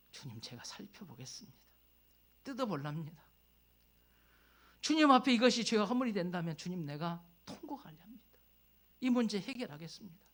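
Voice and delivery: hushed then rising prayer to the Lord; prayerful vow. Pretend. Voicing a prayer of repentance.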